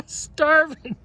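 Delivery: breaks into a laugh mid-word; laughing while teasing a friend. Retold or imitated. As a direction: tease him, laughing through it.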